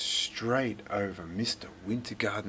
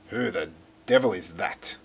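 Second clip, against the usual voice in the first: shouted; 3 semitones lower, 4 dB louder than usual. Acted. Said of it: "shouted a voice from inside".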